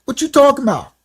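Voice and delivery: high, breezy denial with a smile; playing it off. Dodging his friend's concern, high casual denial. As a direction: laugh the question away. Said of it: "So I'm like".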